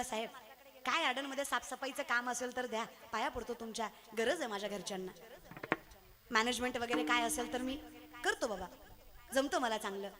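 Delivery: a lightly voiced poor graduate pleading; pleading job seeker.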